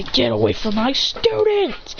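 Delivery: acted stern warning; protective command. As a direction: order the attacker off your students. Teacher defends students.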